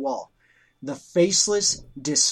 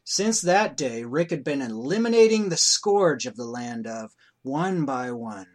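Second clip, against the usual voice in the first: story narration. A narrator's reading.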